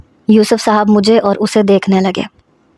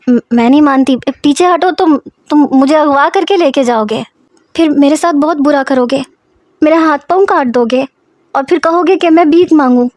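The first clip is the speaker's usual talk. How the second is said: put-on a lightly raised, frightened young girl's voice; 4 semitones higher than usual. Girl pushing her father away, lightly voiced and frightened. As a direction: voice a scared girl backing away from a stranger.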